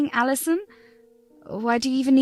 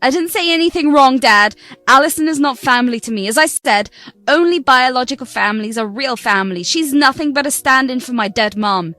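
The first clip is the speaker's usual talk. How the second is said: defiant shout. Acted. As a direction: throw it back in his face. Daughter shouting back at father.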